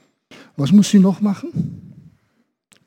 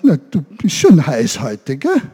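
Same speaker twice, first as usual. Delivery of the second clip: teasing giraffe; 4 dB louder than usual. Acted. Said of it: "die Giraffe da und sagt".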